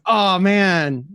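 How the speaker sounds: high, loud, stretched-out gushing; imitated excited fan. Stranger thinks he met a comedian, loud mock excitement. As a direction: gush like the starstruck stranger.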